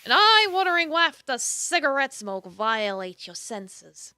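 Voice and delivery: measured, dramatic narrator reading; storyteller setting the scene; story narration. A narrator's reading. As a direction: narrate the scene with deliberate emphasis. Reads game narration aloud.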